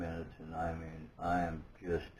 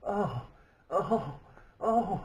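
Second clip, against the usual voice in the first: awed oh; 13 semitones higher, 4 dB louder, much slower than usual. Retold or imitated. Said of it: "And I'm just going".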